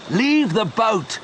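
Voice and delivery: high, slow, urgent cry; shouted plea. A narrator's reading. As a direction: Leon pleads with Joe to save himself. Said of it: "shouted Leon".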